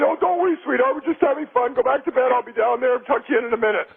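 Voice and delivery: reassuring joke father. Acted. Father sending his kid back to bed, lightly reassuring. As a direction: brush the child's worry off, pitch easing down.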